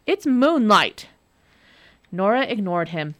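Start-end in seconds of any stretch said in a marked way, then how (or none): 0.1-1.1 angry. Acted. Devil angry.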